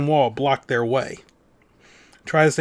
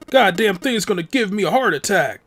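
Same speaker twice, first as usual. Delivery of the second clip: higher-pitched gruff exclamation of alarm; exasperated outburst; 5 semitones higher, 4 dB louder than usual. Acted. Rattled man after the countdown stops, exasperated outburst. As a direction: blurt it out, rattled and annoyed.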